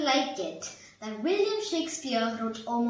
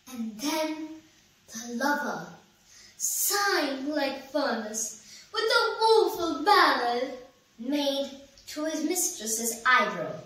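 measured verse with a swell on the ballad; dramatic stage recital of verse; poem recitation. Acted. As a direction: recite it theatrically, pausing after each phrase. Recites the lover's age.

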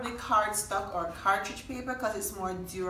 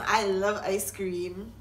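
mock delight; 3 dB louder, slower than usual.

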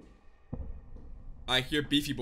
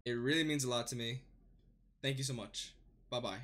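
soft tired outro; 12 semitones lower, 7 dB quieter than usual. Real, not acted. Quiet outro after game.

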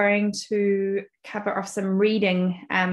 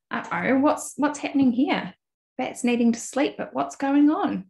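surprised storyteller; 4 semitones higher than usual. Acted. Teacher reading to children, exclaiming.

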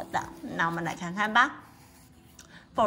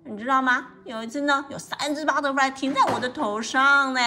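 boasting, slightly raised storybook voice; higher, lively brag; very proud; 3 semitones higher than usual. Acted. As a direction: show off proudly. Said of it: "很，非常骄傲地说呢".

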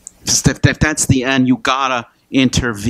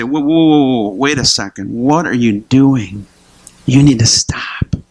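firm intervention. Acted. Bystander confronting an abuser, firm acted intervention. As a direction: step in and stop them, acted. Acting out stepping in against abuse.

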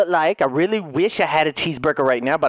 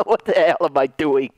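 laughing question in his own voice; amused disbelief; 3 semitones lower than usual. Real, not acted. Joker catches himself mid-act, laughing disbelief. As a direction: ask it through a laugh.

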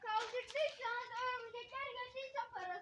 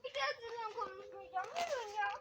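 crying; 6 dB quieter than usual. Real, not acted. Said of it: "Ağlıyor".

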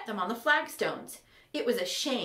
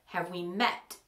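doubtful; 4 semitones lower than usual. Acted. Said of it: "he asked doubtfully".

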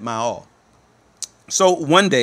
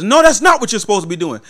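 coach snapping; 8 semitones higher, 7 dB louder, faster than usual. Retold or imitated. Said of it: "He says".

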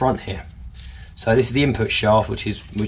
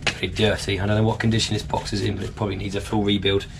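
croaky voice; 3 dB quieter than usual. Real, not acted. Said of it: "Excuse my croaky voice".

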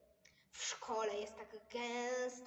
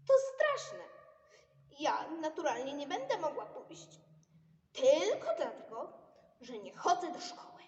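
loud, high indignant outburst; 3 semitones higher, 8 dB louder than usual. Acted. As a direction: complain loudly, outraged.

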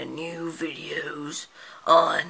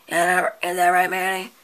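calling out; 2 semitones higher, 7 dB louder than usual. Acted. Calling out to Manny.

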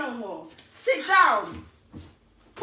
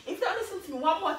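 real anger, held low; annoyed warning; 3 semitones lower, 3 dB quieter than usual. Real, not acted. Mother warning kids who will not listen, restrained annoyance. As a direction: lay down a last warning, dropping lower. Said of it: "I'm getting annoyed, I'm getting angry".

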